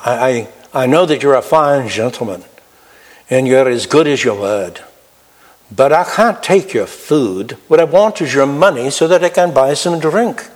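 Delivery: lightly put-on Irish accent; imitated Irish accent. Alcoholic friend blurts out a plea for money, light Irish accent. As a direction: voice a drinking friend with a slight Irish lilt. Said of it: "Irish accent".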